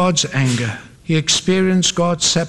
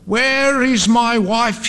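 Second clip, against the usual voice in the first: slow, high-pitched cry; narrator's restrained scream; mild scream; 6 semitones higher, slower than usual. A narrator's reading. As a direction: draw the question out in desperation. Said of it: "he screamed".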